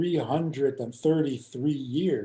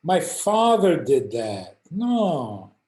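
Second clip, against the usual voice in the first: higher and louder, brushing it off; dismissive refusal; 3 semitones higher, 5 dB louder, much slower than usual. Retold or imitated. Russian man refusing the rabbi, dismissive. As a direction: wave off the old custom. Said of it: "He said".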